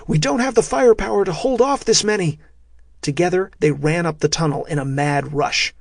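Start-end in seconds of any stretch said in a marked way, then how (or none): 0.1-2.4 sharp high barked order; commander's shouted command; yell. A narrator's reading. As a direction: bark the single word. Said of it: "Bratt yelled".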